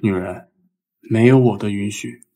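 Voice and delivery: low, commanding bossy tycoon voice; domineering ceo. Acted. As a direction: play the arrogant romance-novel CEO. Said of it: "你是不是在学霸道总裁？".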